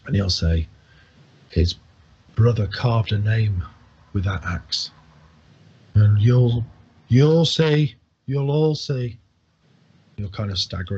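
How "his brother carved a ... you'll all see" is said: put-on grand, louder drunken proclamation; drunk orator. Old drunk proclaims the axe's destiny to the tavern, grand and louder. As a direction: declaim it like a once-great orator.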